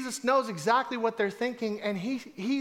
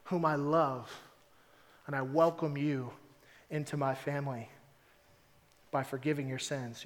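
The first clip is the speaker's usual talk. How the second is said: tender and soft; 5 semitones lower, 4 dB quieter than usual. Acted. Jesus voiced adopting the man.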